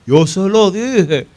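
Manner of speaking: high, slow mock woman's voice; drawn out and triumphant, pitched well up; the mother proudly drawling her told-you-so; imitating the mother. Mother recalls her prediction.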